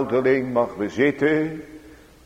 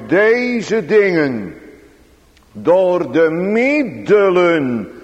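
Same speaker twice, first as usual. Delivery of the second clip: slow, measured pleading with God; fervent prayer; 4 semitones higher, 4 dB louder, slower than usual. Acted. Preacher showing listeners how to plead God's promise, fervent prayer. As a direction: press each phrase home deliberately.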